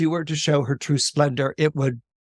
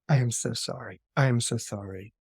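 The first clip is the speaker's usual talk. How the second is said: subdued apology; 5 semitones lower, 6 dB quieter than usual. Acted. Queen apologises, defeated.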